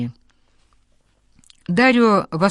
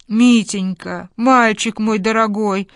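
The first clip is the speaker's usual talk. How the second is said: slow, raised exclamation of relief; a tender, overflowing exclamation; exclaiming grandmother; 4 semitones higher, 4 dB louder, slower than usual. A narrator's reading. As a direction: grandmother crying out her joy. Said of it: "воскликнула бабушка".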